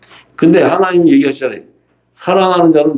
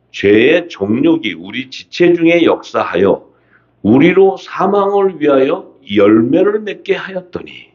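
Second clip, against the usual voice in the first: slow, measured verse reading; scripture reading. Acted. Preacher reading scripture to the congregation, slow and measured. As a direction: read the verse out with drawn-out phrases. Reads Romans aloud.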